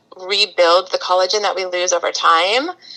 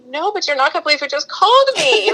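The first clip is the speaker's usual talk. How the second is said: excited news; 8 semitones higher, faster than usual. Retold or imitated. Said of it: "And I was like".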